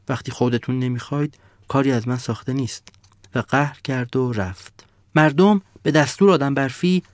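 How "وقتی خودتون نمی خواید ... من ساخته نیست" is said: a touch softer, sadly giving up; quiet and sad. Acted. The sun giving up on the villagers, quiet and sad. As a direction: let it go with sorrow. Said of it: "آرام و غمگین".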